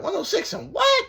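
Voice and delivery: put-on high, loud confused old man; old cellmate voice. Cellmate asking the narrator what the show is, high and baffled. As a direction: squeak it out like a baffled old timer. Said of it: "He's like".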